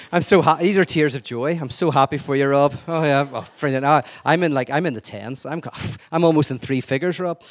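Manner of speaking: sarcastic congratulations with a laugh; mock happiness. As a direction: pretend to be thrilled for Rob through gritted teeth. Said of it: "It's why I hate Rob Bell".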